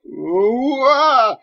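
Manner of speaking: very high, loud yelp; boy's alarmed shout at the chant; startled shout. Acted. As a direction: cry out and jump back. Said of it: "Daniel let out a shout".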